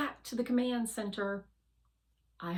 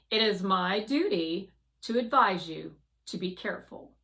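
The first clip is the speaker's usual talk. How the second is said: Guardian voice; 6 dB louder than usual. Acted. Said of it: "Guardian says".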